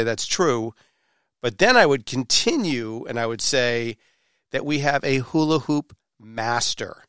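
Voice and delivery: showy podcast host introduction with dramatic pauses; announcer-style intro. Acted. Host welcomes listeners and hypes the hula hoop guest, announcer style. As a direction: build up the guest with punchy emphasis.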